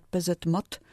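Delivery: P Z Mot stressed on MOT, "pe-zet-MOT"; final-syllable stress. Shown as a demonstration. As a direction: lean on the last syllable of P Z Mot. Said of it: "Na ostatniej sylabie akcentujemy literowce". (P Z Mot z akcentem na końcu: pe-zet-MOT)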